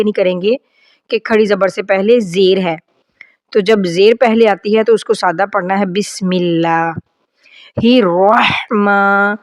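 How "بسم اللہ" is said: بسم اللہ with اللہ said thin, not heavy; thin Allah. Shown as a demonstration. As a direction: keep the lam of اللہ light after بسم. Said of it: "ہم یہاں پر بسم اللہ نہیں کہہ رہے".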